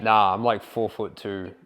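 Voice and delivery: deadpan sarcastic understatement; sarcastic denial. Shown as a demonstration. Coach answers "are you six foot", sarcastic. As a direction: throw it away, sarcastic. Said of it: "you could say something like".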